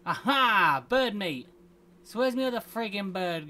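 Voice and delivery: triumphant cheer of a catch; excited. Real, not acted. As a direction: celebrate the kill loudly. Shot a bird in game.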